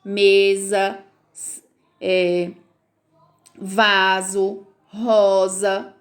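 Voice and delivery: mesa, vaso, rosa with the S as a buzzing Z. Shown as a demonstration. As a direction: buzz the S between vowels. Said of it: "vai ler com o som de Z". (S entre vogais com som de Z)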